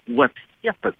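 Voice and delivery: playful touch of a Russian accent. Real, not acted. Guest joking about Hillary's book, in a Russian accent. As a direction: slip into a Russian accent for two words. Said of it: "is that a Russian accent".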